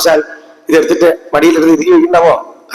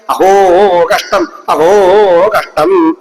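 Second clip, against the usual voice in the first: drawn-out, hammed-up lament; mock wailing; slower than usual. Balarama weeping over his brother's father-in-law, mock lament. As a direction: imitate a tearful wail without real sobs. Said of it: "എന്ന് പറഞ്ഞ് കരയാൻ തുടങ്ങി".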